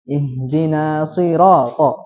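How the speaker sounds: "Ihdina siratal" tanpa tasydid pada shad, lambat; tasydid shad hilang. Shown as a demonstration. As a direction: contoh salah: "siratal" tanpa tekanan shad. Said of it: "tasydidnya tidak terbaca". (bacaan salah tanpa tasydid)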